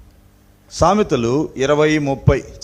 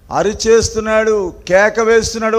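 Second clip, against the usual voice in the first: raised, ringing pulpit voice; impassioned preaching; 8 semitones higher, 6 dB louder than usual. Real, not acted. Preacher describing David crying out, impassioned preaching. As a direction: cry it out to the congregation.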